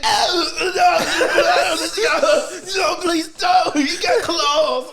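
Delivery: high, loud, laughing mock pleas; hammed-up panicked pleading. Kuwabara being mauled by demon dogs, high panicked begging. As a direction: beg the dogs to stop in a squeaky panic. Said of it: "They was like".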